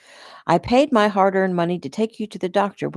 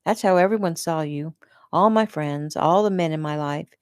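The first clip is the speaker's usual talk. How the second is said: disgusted. Acted. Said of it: "disgust dripping from her voice".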